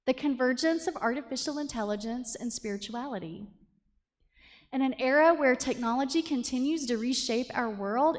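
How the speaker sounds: flat, even robotic reading; monotone robot voice. Pretend. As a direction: read it like a machine. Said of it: "imagine that I'm reading this in a monotone robot voice".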